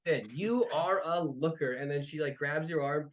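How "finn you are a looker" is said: flirty giantess. Acted. Angie flirts with Finn.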